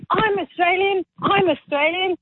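put-on high-pitched, eager Aussie accent; great Aussie accent. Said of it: "with a great Aussie accent".

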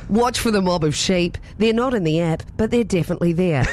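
put-on a light, recovered New Zealand sat nav accent; a mild Kiwi accent as a joking GPS. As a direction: land the Kiwi accent properly this time. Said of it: "my natural dialect".

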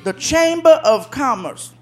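man thrilled by a welcome card; delighted reading. Retold or imitated. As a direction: read the card out, slowly and pleased.

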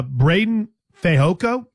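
slow, careful naming of the player; said very slowly. Shown as a demonstration. Naming a player to co-host so he won't get in trouble, slow and deliberate. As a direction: spell the name out slowly and carefully. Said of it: "I said that very slowly".

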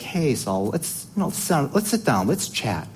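lightly voiced sweet-talking tempter, casual and friendly; chatty, coaxing sales pitch with lifts in pitch on the questions; lightly acted smooth talker luring someone in; Agag. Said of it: "I would imagine Agag's like".

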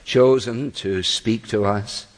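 measured, reverent public prayer. Acted. Preacher leads congregation before opening the holy word, prayerful. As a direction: pray aloud in unhurried phrases, pausing between them.

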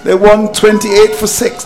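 "one twenty-eight for six" spaced out a little; deliberately slow. Real, not acted. Telling listeners the West Indies score, "one twenty-eight for six" said slowly. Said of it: "I'm gonna say this slowly".

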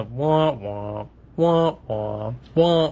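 lightly imitated Peanuts-like wah; repeating wah-wah. Co-host mimics what the weatherman kept hearing, repeating wah-wah. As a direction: mimic a looping sound effect, wah after wah. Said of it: "he just kept hearing the".

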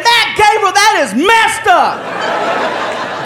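high, drawn-out wail of complaint; hammed-up protest from a prank victim; pranked man protesting.

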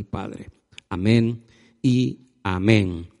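steady, earnest public prayer; congregational prayer. Real, not acted. Preacher asking the Lord to help him receive the word, prayerful. Leads a prayer before reading.

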